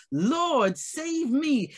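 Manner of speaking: a touch of a cry for rescue. Acted. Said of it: "But Peter cried out".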